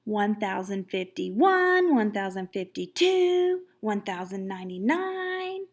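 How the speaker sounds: slow, drawn-out count. Acted. Lily slowly counting out her time in the chair.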